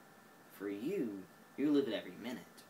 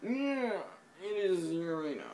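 insistent correction; 8 semitones higher, 7 dB louder than usual. Acted. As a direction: belt it out like you're correcting a fool. Arguing over how to say Uranus.

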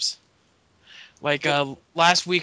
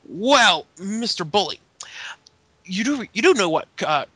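Joseph Park voice. Retold or imitated. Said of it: "Joseph Park looks at him and goes".

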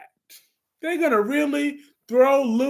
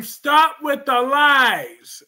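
drawn-out, louder accusation; loud and slow; 4 semitones higher, 5 dB louder, much slower than usual. Real, not acted. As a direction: draw it out to scold. Repeated twice, first louder.

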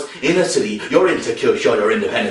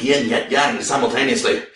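ordinary delivery, nothing marked

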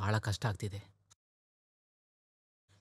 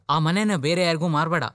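higher, louder insistent offer; emphatic plea; 6 semitones higher, 5 dB louder than usual. Acted. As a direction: press him hard not to sell. Brother insists on keeping house.

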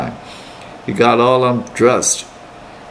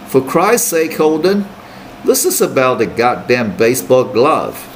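annoyed roommate. Retold or imitated. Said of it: "he said".

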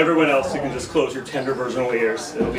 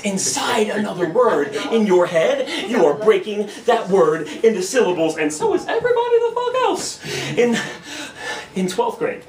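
animated spoken-word delivery with high bursts; slam poetry; 5 semitones higher than usual. Acted. Poet explaining syllables to the crowd, slam poetry. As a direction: perform the explanation, leaping up on punchlines.

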